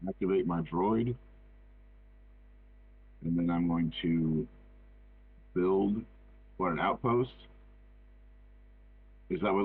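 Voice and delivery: muffled voice, as if covered. Real, not acted. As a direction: speak through a covered mouth. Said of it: "you were a little muffled there".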